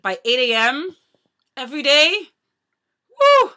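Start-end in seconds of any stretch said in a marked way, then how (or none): 3.1-3.5 high, loud "woo"; short, piercing whoop. Real, not acted. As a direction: let out a sudden high whoop. Exclaims at the early starts.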